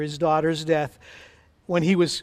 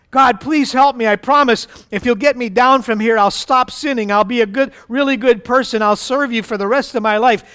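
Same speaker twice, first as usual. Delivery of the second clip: raised, urgent bargaining voice; pleading; 4 semitones higher, 4 dB louder than usual. Acted. Jack promising God anything to get down, pleading. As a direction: beg for rescue with promise after promise.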